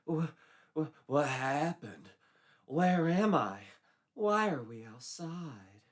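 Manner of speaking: just come to, lost; dazed confusion. A narrator's reading. Jessie wakes up confused.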